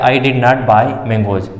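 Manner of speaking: reads the sentence word by word, very slowly; slow example read-out. Shown as a demonstration. Teacher reading an example to students, very slowly. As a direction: spell the example out slowly for the class. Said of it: "अब आप खुद देखिए इसको".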